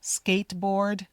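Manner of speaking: skateboard with no T release; skateboard, T dropped; skateboard, swallow the T. Shown as a demonstration. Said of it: "You don't need to say the T".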